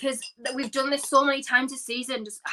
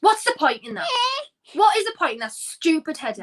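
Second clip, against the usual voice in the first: higher, emphatic exasperated question; 6 semitones higher, 3 dB louder than usual. Real, not acted. Fan questioning a pointless header, exasperated. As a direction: demand an answer, fed up.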